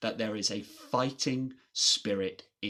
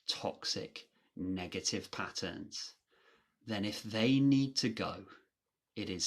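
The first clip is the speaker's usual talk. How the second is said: softer, lower, with long pauses; grave, hushed sincerity; 3 semitones lower, 6 dB quieter than usual. Real, not acted. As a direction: drop the volume and deliver hard advice gently. Grave advice on cutting out family.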